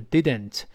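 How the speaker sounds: "didn't" with both syllables released; careful two-syllable "didn't"; careful full form. Shown as a demonstration. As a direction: say "didn't" as did-ent, vowel in the second syllable. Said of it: "读得很慢的话是didn't".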